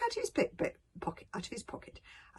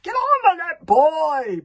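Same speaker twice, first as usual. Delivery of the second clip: high, impatient bellow; booming; 10 semitones higher, 15 dB louder, slower than usual. Acted. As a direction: cut in at full volume. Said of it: "boomed Bobber".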